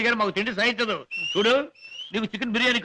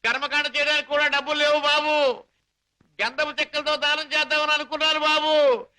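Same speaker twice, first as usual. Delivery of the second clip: hammed-up grief; 4 semitones higher than usual. Fake mourning to get money.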